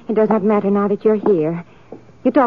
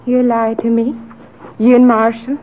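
angry accusation; 4 dB louder than usual. Acted. Anna accuses him of lying.

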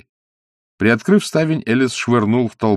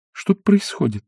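exclaimed; 9 semitones higher than usual. A narrator's reading. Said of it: "воскликнула она".

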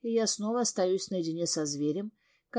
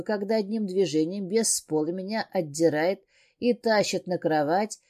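ordinary delivery, nothing marked

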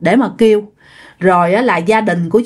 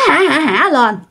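imitated ghost laugh; 4 semitones higher than usual. A narrator's reading. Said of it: "vừa nói mà vừa cười".

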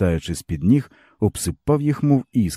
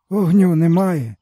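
higher, bitter village man's voice; weary peasant man; 12 semitones higher, 5 dB louder, slower than usual. A narrator's reading. Stepan tells the boy his woes, bitterly. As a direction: speak as a broken old peasant.

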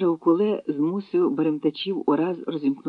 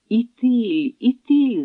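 high, louder glad cry; joyful shout; 8 semitones higher, 4 dB louder, much slower than usual. A narrator's reading. Raiders seeing the great river, shouting joyfully. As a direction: cheer at the sight of the river. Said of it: "загилготали радісно баримтачі".

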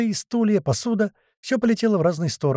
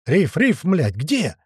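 shouting; 4 semitones higher, much slower than usual. Acted. Panicked shouting for the boatswain.

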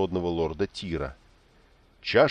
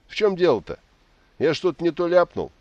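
put-on much higher, louder puzzled drunk; confused drunk; 11 semitones higher, 6 dB louder than usual. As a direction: blurt it out, baffled and tipsy. Drunk Istin confused after silence.

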